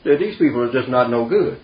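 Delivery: retold verdict, firmly emphatic. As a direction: lay it down as someone else's final word. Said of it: "he was quite emphatic about that".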